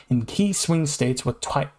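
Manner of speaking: tripping over the words; misspeaking mid-sentence, slowing; stumbling. Real, not acted. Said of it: "I keep misspeaking".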